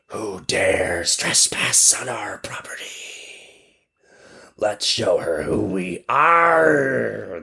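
slow eerie whisper instead of a scream; whirlwinds screaming. Acted. Whirlwinds threatening the trespassing girl, a slow eerie whisper. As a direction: hiss it out slowly like angry wind spirits. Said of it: "they screamed".

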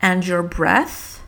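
your breath drawn out very slowly, short e; careful English demo. Shown as a demonstration. Teacher modelling your breath for learners, very slow. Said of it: "in English".

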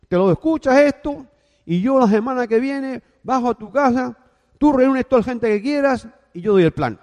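the confident Cuban mentor giving orders; Cuban accent. Retold or imitated. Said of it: "era cubano".

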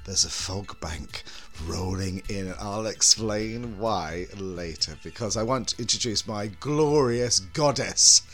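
slow sultry horror host purr; breathy vintage purr. Acted. Horror host intro persona.

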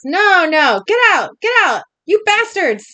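high, loud and frantic; yelled order, pitched well up; acted shout. A narrator's reading. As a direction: shout them out of the house. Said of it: "Susie shouts".

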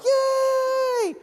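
high, loud, drawn-out yay; group cheer. Retold or imitated. Family cheering as the engine starts, high drawn-out whoop. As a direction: imitate everyone cheering at once.

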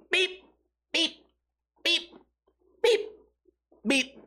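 short high mimicked beeps; spaced-out mock beeping noises; imitated beeps. Comic imitating two kids going beep, high mimicked beeps.

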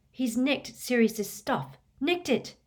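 high, slow indignant protest; indignant, with drawn-out emphasis; outraged. A narrator's reading. Harry outraged at the theft.

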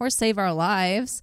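put-on slow sing-song Valley Girl accent. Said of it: "So she says".

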